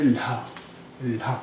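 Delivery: ल्हा as one joined l-h sound; blended lha. Shown as a demonstration. Teacher isolating the merged sound, ल्हा blended. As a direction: breathe the h through the l in ल्हा. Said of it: "अगर ये मिली हुई".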